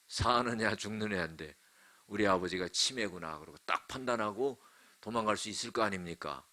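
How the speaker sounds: normal talking voice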